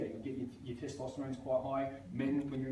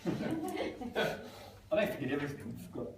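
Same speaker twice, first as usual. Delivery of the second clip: slow, laughing protest; laughing denial; slower than usual. Retold or imitated. Teased about forgetting, laughing slow denial. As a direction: deny it through a laugh, slowly. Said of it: "forgets everything".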